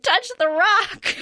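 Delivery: slow, high, hammed-up command; Touch the rock, slow and punchy; dramatic line. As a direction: deliver it like a movie one-liner. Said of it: "I wish he had been like".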